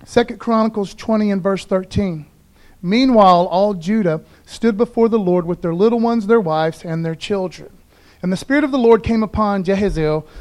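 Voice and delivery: scripture reading. Acted. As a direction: proclaim the verses to the church. Reads the scripture passage aloud.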